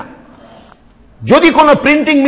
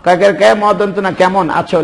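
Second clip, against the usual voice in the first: spelling out letters; 4 semitones lower than usual. Shown as a demonstration. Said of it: "আমি মুখ বন্ধ রাখছি, কলম দিয়ে লিখতেছি".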